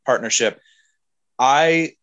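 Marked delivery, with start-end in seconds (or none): 1.4-1.9 emotional, slightly shaky delivery; steadying shaky voice. Real, not acted. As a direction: voice wobbling with emotion. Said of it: "I'm sorry, I'm getting emotional".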